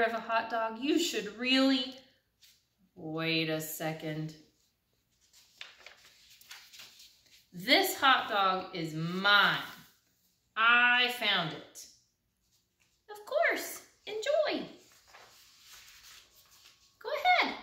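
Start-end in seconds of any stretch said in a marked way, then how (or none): 2.9-11.9 suspicious pigeon. Acted. Pigeon turns possessive. 13.1-17.5 high, gentle chick voice; sweet duckling. Acted. The duckling sweetly telling the pigeon to enjoy it.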